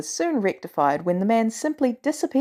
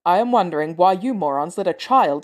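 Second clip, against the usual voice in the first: a touch louder, exasperated Thor; Thor's angry voice; 3 semitones lower, 3 dB louder than usual. Acted. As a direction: scold the team like an angry god. Thor scolds teammates.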